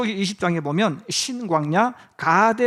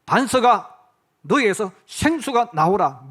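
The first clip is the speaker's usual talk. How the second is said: firm, louder command to the rock; retold command; 5 dB louder than usual. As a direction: call out an imitated order with authority. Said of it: "네가 명령을 내려라". (명령하듯 힘주어 흉내 낸 말투)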